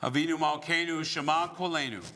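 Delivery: chanted Hebrew prayer line; prayer leading. Real, not acted. Rabbi leading the Avinu Malkeinu, solemn prayer. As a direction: lead the congregation in prayer.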